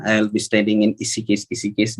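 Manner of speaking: Rishikesh with the R dropped; childish mispronunciation of Rishikesh. Retold or imitated. Kid telling everyone about the new school, Rishikesh mispronounced. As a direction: say "Ishikesh" for Rishikesh, repeating it. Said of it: "I would say it".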